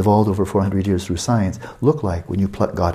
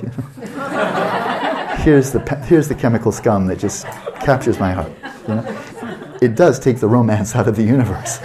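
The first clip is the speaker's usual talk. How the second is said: laughing; 2 semitones higher than usual. Real, not acted. Mocking chemical-scum romance.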